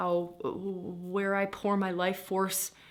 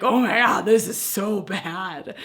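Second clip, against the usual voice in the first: louder, dragged-out wail of gloom; mock despair; 6 dB louder, slower than usual. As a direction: wail it slowly as if sinking into despair. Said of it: "tank into the pits of despair".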